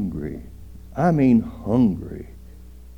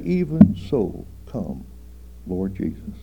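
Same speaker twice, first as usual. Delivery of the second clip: fervent prayer; 3 semitones lower than usual. Retold or imitated. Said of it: "Just say".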